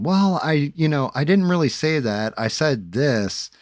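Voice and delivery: imitating the manager caught in a lie; mock flustered excuse. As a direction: play him squirming and backpedalling. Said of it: "This is how it went down".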